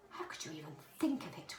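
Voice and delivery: soft reproachful whisper. A narrator's reading. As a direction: hush it down, disappointed mother. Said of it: "whispered Mother".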